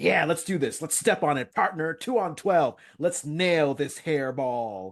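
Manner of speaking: mock raring to go, eager, fired-up enthusiasm. Speaker quoting Steve, acting out eager enthusiasm. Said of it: "Steve was so enthusiastic".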